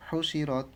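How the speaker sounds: হুশি রত with unstretched vowels; no elongation. Shown as a demonstration. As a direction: keep হুশি short and join রত up. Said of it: "এই জন্য কোনো টান ছাড়াই পড়লাম". (হুশি রত টান ছাড়া)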